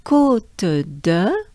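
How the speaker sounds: Côte de with a long held O; sustained o. Shown as a demonstration. Teacher holding the O in Côte de. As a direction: lengthen the O in Côte. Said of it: "take a good breath".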